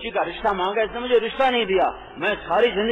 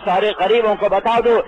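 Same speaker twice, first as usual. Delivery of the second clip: preacher building a rousing refrain; preaching refrain. Acted. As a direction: proclaim each line like a preacher calling out.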